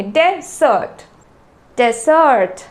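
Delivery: डेजर्ट with a quick, short de; डेजर्ट as short de plus fuller sert; short first syllable. Shown as a demonstration. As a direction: keep the start of डेजर्ट short, then SERT. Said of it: "उसको हम shortly बोलेंगे".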